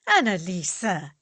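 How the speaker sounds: loud, scandalised cry of her name; shocked rebuke. Acted. Max to Annalisa, scandalised by her remark. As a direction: call her out sharply.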